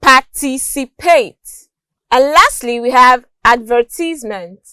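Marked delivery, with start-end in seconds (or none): 0.0-1.7 "participate" slowly, stressed on TIC; second-syllable stress. Shown as a demonstration. Teacher giving an example, "participate" stressed on its second syllable. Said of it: "stress on the second syllable". 3.4-4.6 "advertisement" stressed on VER; second-syllable stress. Shown as a demonstration. Teacher giving an example, "advertisement" stressed on its second syllable. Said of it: "stress on the second syllable".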